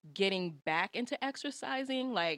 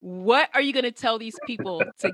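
loud playful call; 11 dB louder than usual. Real, not acted. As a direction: boom it out playfully. Playful loud request to guest.

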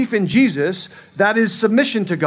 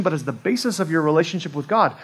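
ordinary talk, nothing marked

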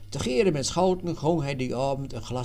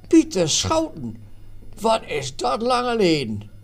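put-on higher, louder cry of surprise at meeting an old friend; surprised greeting; 7 semitones higher, 6 dB louder than usual. A narrator's reading. Stoefstand meets his old roommate again, surprised and louder. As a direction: greet him like a long-lost friend, delighted. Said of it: "verraste bescheid".

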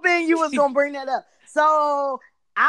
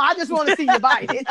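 laughing. Retold or imitated. Quoting sister, laughing.

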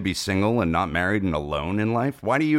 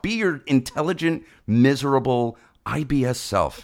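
mock Kermit pep talk; 5 semitones higher than usual. Mocking Kermit-style pep talk.

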